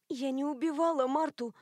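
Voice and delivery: ordinary delivery, nothing marked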